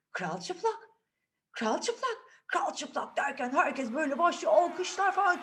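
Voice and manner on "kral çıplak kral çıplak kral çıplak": parents calling out. Acted. Parents join the cry.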